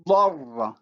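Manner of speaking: Darra with a backed vowel; emphatic d pulls the vowel back; Arabic emphasis demo. Shown as a demonstration. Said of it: "look at the examples".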